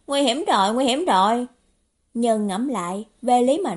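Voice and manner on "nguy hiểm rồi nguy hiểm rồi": worried little outcry, mildly panicked; hơi hoảng. Acted. Nhân vật hoảng hốt nghĩ thầm. (hơi hoảng hốt, cao giọng)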